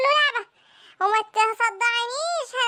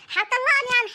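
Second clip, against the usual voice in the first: surprised question. Acted. Wife asks about divorce.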